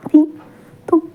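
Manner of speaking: a lightly voiced, remorseful confession; tearful pleading. Tearful recognition and apology. (माफ़ी माँगते हुए, भावुक होकर ऊँची आवाज़ में)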